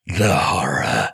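low, slow, crying dread; mock sobbing horror. Parent mocking bedtime drama, slow low mock sob. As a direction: drag it out with a fake sob.

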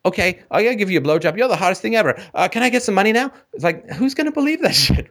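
high whiny mock woman. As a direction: sneer it in a high girly voice.

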